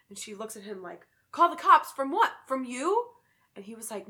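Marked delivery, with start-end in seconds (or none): 1.3-3.1 loud, high shocked questions; alarmed disbelief. Acted. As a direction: react in stunned panic. Woman's alarmed reply in story.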